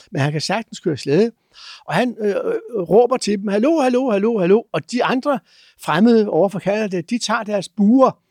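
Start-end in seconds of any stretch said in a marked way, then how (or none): 3.5-4.6 high, carrying call of greeting from afar; cheerful calling hallo. Retold or imitated. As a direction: hail them from a distance. Man on sled calls out greeting.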